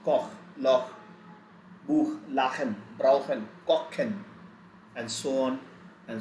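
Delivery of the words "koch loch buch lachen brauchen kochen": "Koch", "Loch", "Buch" ending in kh; "Lachen", "Brauchen", "Kochen" with kh in the middle; German ch as kh. Shown as a demonstration. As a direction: run through "Koch" to "Kochen" as a list of kh examples. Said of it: "going to be pronounced as".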